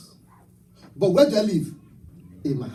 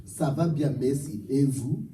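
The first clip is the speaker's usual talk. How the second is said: French phrase; 3 semitones lower than usual. Shown as a demonstration. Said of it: "I'll tell you what".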